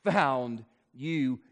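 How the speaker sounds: tender correction from a father; God gently answering his child; loving God. Retold or imitated. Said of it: "God looks at us lovingly and says".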